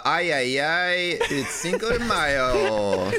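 hammed-up party accent; lightly voiced Mexican accent; put-on accent. Shown as a demonstration.

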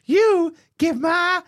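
put-on high, drawn-out Southern accent holler; mock-yell at paparazzi in a Southern accent. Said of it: "I gave her a Southerner accent".

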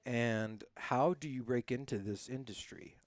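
hushed, secretive question; whispering. Real, not acted. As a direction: whisper it as a confidential aside.

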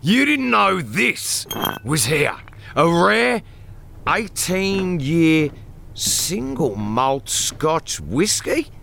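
angry interrogation. Acted. Boss interrogating cowering Lionel.

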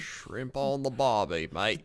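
mock Aussie twang; tongue-in-cheek Australian impression; Australian accent. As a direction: put on a casual Australian accent. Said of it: "That was my Australian".

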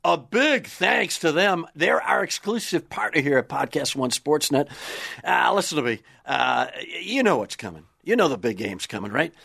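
hyped-up radio ad read; booming prize announcer. Acted. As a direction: sell the prize like a game show.

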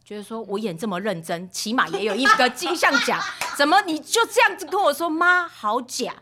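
high, loud, hammed-up indignation; mock outrage. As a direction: play up the wounded star, loud and high. Mock outrage at child's verdict. (夸张地假装委屈抗议)

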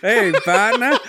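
badly faked Texan hail; bad Texan accent. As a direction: attempt Texan and miss. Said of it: "partner in my Texas is real bad".

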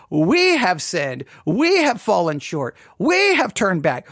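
every "we" stretched and leaned on; "we" punched at the start of each phrase; stress on each WE. Acted. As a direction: confess with a long, emphatic "we" each time. Proposed confession, repeated stressed we.

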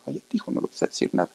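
fast, hushed whisper of a stern mother; mother's whispered warning. Retold or imitated. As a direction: warn the boy in a fast whisper. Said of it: "Así como".

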